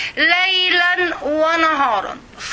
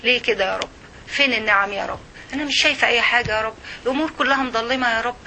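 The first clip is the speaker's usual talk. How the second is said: a hint of a discontented soul complaining; inner complaining voice; 2 semitones lower, 4 dB quieter, faster than usual. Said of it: "كل ما بداخلك".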